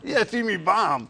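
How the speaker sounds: slow, chuckling self-mockery; laughing. Real, not acted. Radio host laughing off the comedy invitation, amused. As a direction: laugh through the words at yourself.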